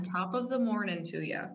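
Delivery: lightly attempted Irish brogue; Irish accent attempt. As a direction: have a go at an Irish greeting.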